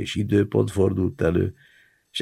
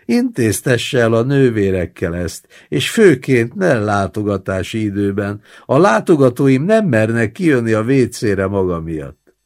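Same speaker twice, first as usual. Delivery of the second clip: scolding; 3 semitones higher, 4 dB louder than usual. Acted. Roommate scolds the old man.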